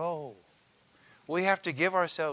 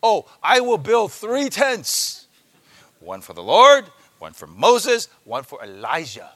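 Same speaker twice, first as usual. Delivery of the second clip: mock-eager Peter; 12 dB louder than usual. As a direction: pitch the tents idea with loud enthusiasm. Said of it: "Absurd proposal".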